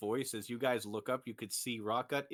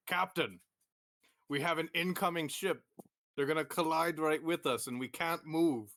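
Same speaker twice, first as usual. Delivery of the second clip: panicked crew member; 5 semitones higher than usual. Acted.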